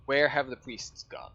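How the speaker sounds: lightly voiced slow turtle; a hint of an unhurried old-world creature, drawn out. Game master as turtle asking about priests, lightly voiced. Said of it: "he says".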